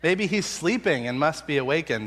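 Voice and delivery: mocking, jabs leaping high in pitch; sarcastic taunt. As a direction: taunt them with biting sarcasm. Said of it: "his sarcasm comes out".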